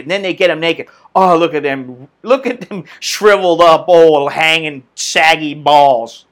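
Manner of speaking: slow, low, mocking flirty coo; mock seductive woman. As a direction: ham up a swooning woman, slowly. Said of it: "and they go".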